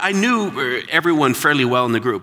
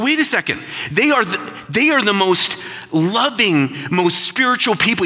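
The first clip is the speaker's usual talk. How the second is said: protesting friend; 8 semitones higher than usual. Retold or imitated. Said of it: "he's going".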